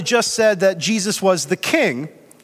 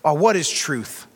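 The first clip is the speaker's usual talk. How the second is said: mock-cynical question, lower and slow; 5 semitones lower than usual. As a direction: imitate a dismissive cynic, drawing it out lower. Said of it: "saying this in a cynical way".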